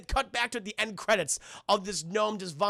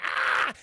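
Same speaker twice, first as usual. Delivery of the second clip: mock scream. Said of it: "all the gnomes begin flying over".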